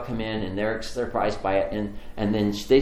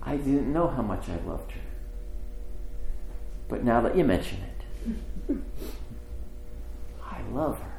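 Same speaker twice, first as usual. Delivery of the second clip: quiet confession with long pauses; tender realisation; 6 dB quieter than usual. Retold or imitated. Brother realising he loves his sister, quietly tender. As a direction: let it sink in, ending very softly. Moved confession closing the story.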